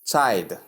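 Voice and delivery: put-on "child" without its L, as chide; mispronunciation demo. Shown as a demonstration. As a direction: drop the L from "child". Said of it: "either of these is wrong".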